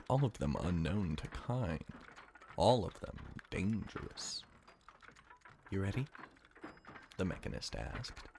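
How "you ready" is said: melancholy. Acted. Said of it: "melancholy still hanging over her".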